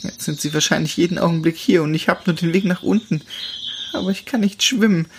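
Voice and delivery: frightened runaway telling her story; young she-wolf. Acted. Chiara voiced higher.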